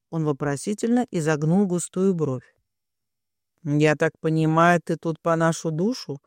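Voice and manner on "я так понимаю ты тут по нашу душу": plain reading voice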